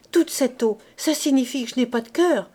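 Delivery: high, loud frightened pleading; terrified babble. Acted. Coupeau babbling in terror about the water. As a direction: gabble in panic. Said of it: "Et il bégayait, les dents claquant d'épouvante".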